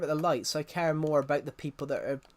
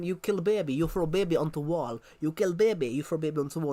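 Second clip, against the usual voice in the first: mock Russian accent. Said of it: "she's doing a Russian accent".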